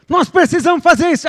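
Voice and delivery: high, loud, urgent burst; mock over-eager voice; hasty eagerness. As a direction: act out someone rushing into action. Mimics hasty reaction to revelation.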